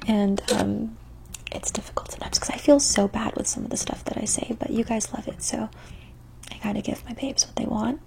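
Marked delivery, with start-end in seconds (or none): 1.5-5.7 ASMR whisper. Acted. 6.5-8.0 soft ASMR whisper. Acted.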